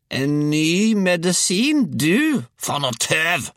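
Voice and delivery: high, loud scornful screech; grandmother's roar. A narrator's reading. Grandmother scoffs at boy's new medicine, high roar. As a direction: roar in high-pitched disbelief. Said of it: "brølte hun".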